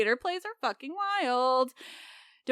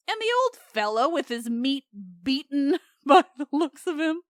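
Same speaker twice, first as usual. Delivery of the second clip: Cyclops line broken by giggles; can't keep a straight face on the rude bit; cracking up mid-quote; laughing through it; 3 semitones higher, 4 dB louder than usual. Acted. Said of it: "And I'll say it again".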